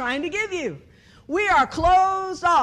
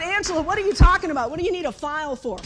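retold exasperated questioning; 3 dB louder, faster than usual. Acting out Andrew's baffled questioning.

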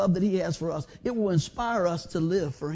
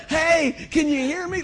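higher, louder calling out like dad on the phone; dad's loud call; 8 semitones higher, 6 dB louder, slower than usual. Retold or imitated. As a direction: call out as if the line is bad. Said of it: "Like my dad".

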